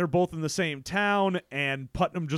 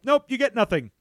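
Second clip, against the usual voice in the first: dismissive refusal; 4 semitones higher than usual. Acted. Parents refusing to pay, acted.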